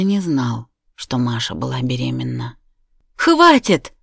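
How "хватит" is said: high, loud shriek of refusal; shout. A narrator's reading. Wife covering her ears, screaming at them. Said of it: "закричала она".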